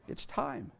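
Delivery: a breathy whispered second time; hushed repeat. Retold or imitated. Mary whispering to Joseph that the baby is coming. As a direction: drop it to a whisper, urgent and low.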